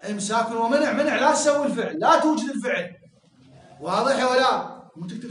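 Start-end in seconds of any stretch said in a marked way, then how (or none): 0.9-2.9 slightly raised, emphatic mock command; acted prohibition. Shown as a demonstration. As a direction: demonstrate forbidding someone, firmly. Teacher repeats the voiced prohibition.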